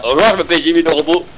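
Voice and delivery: stiff mechanical robot voice. Acted. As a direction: speak like a toy robot. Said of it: "j'ai mis ma voix de robot".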